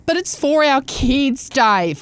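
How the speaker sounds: a hammed-up mum pleading to her husband; mock whiny mum. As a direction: whine it like the self-righteous mum. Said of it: "She never shuts up about".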